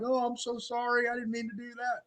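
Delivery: high, soft, sheepish voice; meek apology. Retold or imitated. Man apologizing to the angry sister, meek. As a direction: shrink into a small apologetic voice.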